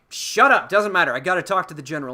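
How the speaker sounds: high, loud, fast brush-off; imitated brusque dismissal. Poe brushing off the crew to find the general, brusque. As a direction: cut them off and rush on, play-acting.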